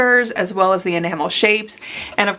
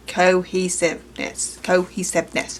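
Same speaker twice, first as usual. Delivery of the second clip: "cohesiveness" slowly, syllable by syllable; slow, deliberate "co-he-sive-ness"; careful enunciation; 3 semitones lower, 3 dB quieter, much slower than usual. Real, not acted. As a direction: sound out "cohesiveness" in separate pieces. Sounding out a stumbled word.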